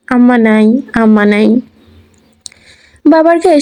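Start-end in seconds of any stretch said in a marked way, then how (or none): 0.1-1.6 put-on a mild sing-song sobbing child; whimpering. A narrator's reading. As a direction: hum the words through tears. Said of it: "গুনগুন করে কাঁদে". (গুনগুন করে কাঁদা শিশুকণ্ঠ)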